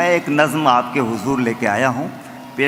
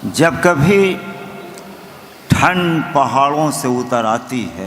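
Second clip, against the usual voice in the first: stately nazm recitation. Acted. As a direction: declaim the line to the gathering. Poet recites verse at mushaira.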